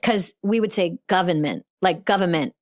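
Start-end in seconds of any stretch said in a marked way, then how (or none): 1.1-2.5 "government" in Boston speech, R dropped; Boston accent. Shown as a demonstration. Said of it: "We'd say government in Boston".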